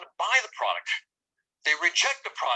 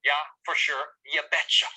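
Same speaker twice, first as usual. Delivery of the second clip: put-on lightly done Minnesota accent, pitched lower; a hint of folksy Minnesotan; 5 semitones lower than usual. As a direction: toss in a little Minnesota accent. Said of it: "we lived in Minnesota".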